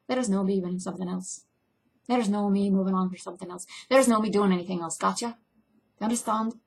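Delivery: uncertain Scottish or Irish lilt; lightly put-on Scottish or Irish accent; attempted Scottish-Irish accent. Shown as a demonstration. Actor insisting there's nothing else for her, in rough Scottish-Irish accent. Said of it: "Scottish or Irish".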